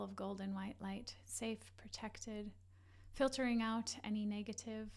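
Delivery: measured meditation guide, long pauses; guided meditation. Acted. Leads a guided breathing meditation.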